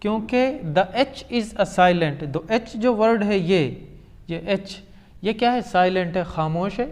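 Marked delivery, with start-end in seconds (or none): 0.7-2.3 slow emphasis. Shown as a demonstration. Teacher stressing silent H.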